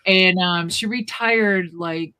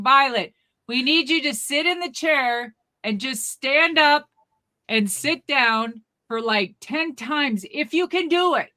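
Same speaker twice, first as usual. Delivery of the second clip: raised, higher instructing voice; mock yelling; 6 semitones higher, 3 dB louder than usual. Clinic staff giving granny a test, mock yelling. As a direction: spell it out loudly for an old lady. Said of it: "They're still yelling".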